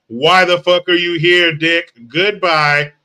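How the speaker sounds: loud, fed-up telling-off; angry. Real, not acted. Host loudly telling off troll Richard before kicking him. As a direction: throw the troll out, loud and sharp.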